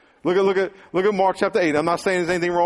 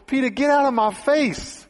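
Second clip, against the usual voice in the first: stern Jesus; 7 semitones higher than usual. Retold or imitated. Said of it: "In other words".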